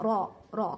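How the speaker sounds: रॉ with a full, heavy r sound. Shown as a demonstration. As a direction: say रॉ thick and heavy. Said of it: "ये इसे मोटा पढ़ना".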